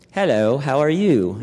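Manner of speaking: lightly imitated British greeting; attempted British accent. Reading a widower's memory of first meeting her, attempted British accent. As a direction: try a British accent, not quite managing it. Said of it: "trying to get the accent down".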